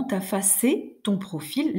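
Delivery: «t'affacer» said slowly with the e heard; slow «t'affacer ton profil», e pronounced; stressed mute e. Shown as a demonstration. Teacher insisting on the e sound, slow. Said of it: "Là, j'insiste".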